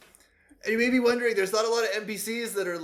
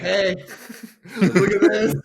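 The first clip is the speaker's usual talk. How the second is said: sly Patches voice; 7 dB louder, slower than usual. Retold or imitated. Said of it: "And he's still just like".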